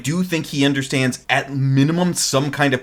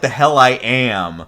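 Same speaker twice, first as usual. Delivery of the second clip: slow, measured denial at usual pitch; mock defiant retort; slower than usual. Kid's corrected comeback to Ryo, mock defiant. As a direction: drag out the comeback, lightly defiant. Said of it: "Or no, more like".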